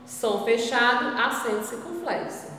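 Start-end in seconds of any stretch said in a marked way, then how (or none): none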